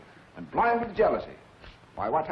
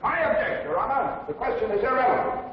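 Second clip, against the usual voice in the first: raised, urgent voice; 6 semitones higher than usual. Acted. Lawyer objecting in court.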